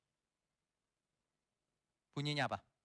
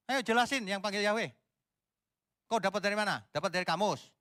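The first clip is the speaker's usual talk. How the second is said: indignant; 8 semitones higher, 4 dB louder than usual. Real, not acted. Indignant rant against Yahweh reading.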